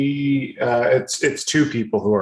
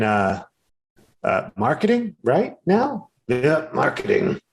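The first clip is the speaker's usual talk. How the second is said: friendly, higher NPC voice, rambling and quick; chatty harvest worker Finepe; 4 semitones higher than usual. Acted. Harvest worker chatting up the newcomers, higher and rambling. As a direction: play a rambling, eager-to-please local who loses her words.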